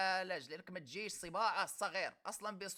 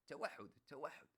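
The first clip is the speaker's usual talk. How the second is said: mock low voice; 7 semitones lower, 9 dB quieter than usual. Mocking the commenter's word.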